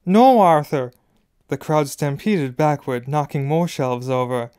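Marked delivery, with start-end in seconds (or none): 0.1-0.9 loud, high cry of protest; shriek. A narrator's reading. Wife trying to stop her husband fighting, shrieking. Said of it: "Missus Weasley was shrieking".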